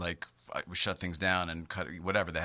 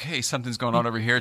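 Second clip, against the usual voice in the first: plain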